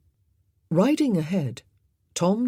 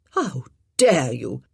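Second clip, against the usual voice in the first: outraged; 3 semitones lower, 5 dB louder, slower than usual. Acted. The lady is insulted.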